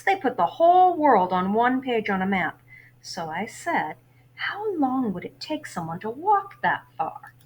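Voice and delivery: lively read-aloud of a novel for class; story narration. A narrator's reading. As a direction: read the chapter to your students, lively. Teacher reads novel aloud.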